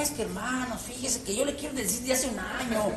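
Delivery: quiet, fast, meandering hedge; roundabout hedging. Shown as a demonstration. Pastor hedging to a brother, quiet and rambling. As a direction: beat around the bush nervously. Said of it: "Si yo le dijera".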